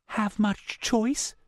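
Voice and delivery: tense, hushed female character voice on the phone; Meredith low-voiced. A narrator's reading. Meredith hiding on a phone call, tense and hushed. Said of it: "Her voice was pitched low".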